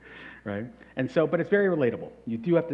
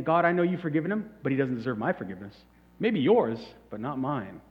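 mock grudging prayer. Churchgoer mocking a grudge against God's forgiveness, mildly smug. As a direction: pout it out like a petty grudge-holder. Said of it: "when you say it like that, it sounds pretty stupid".

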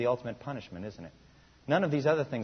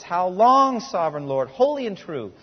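much higher and louder, crying out to God; 4 semitones higher, 7 dB louder than usual. A narrator's reading. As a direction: call out with a loud voice. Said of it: "called out in a loud voice".

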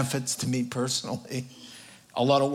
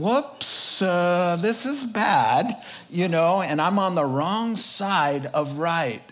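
higher, startled mock thief; dawning alarm, hammed up a little; lightly voiced thief caught out; thief realizing; 4 semitones higher, slower than usual. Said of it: "looking around and going".

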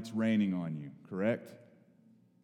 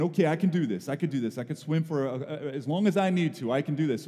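retold nervous pep talk, slightly raised; panicked self-talk; 2 semitones higher, 3 dB louder than usual. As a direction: act out talking yourself through mild panic. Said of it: "But I'm panicking inside".

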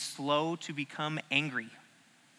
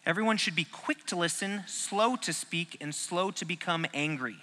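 softer repeat of verse; 6 dB quieter than usual. Shown as a demonstration. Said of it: "verse repeated".

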